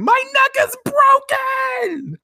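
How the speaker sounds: high, loud, slow wail of a yell; shrieking she broke her neck; retold yell. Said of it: "And she's yelling".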